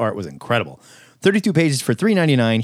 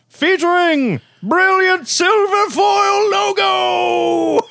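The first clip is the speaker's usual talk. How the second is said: laughing announcer; much slower than usual. Acted. Hamming up the solicit's big finish.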